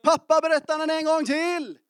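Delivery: put-on high, loud child's plea, laughing at the end; imitating a shouting child. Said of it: "och skriker".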